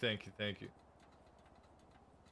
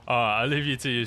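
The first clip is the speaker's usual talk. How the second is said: Winston's voice; 4 dB louder than usual. Acted. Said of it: "Your whole voice changed for a bit there".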